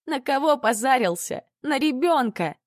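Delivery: high, tearful, indignant accusation; angry accusation. A narrator's reading. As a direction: hurl it at him through tears. Mother accuses drunk lover, crying.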